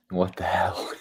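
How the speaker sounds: hushed whisper of disbelief. Real, not acted. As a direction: whisper it to yourself, stunned. Shocked at a chart, aside.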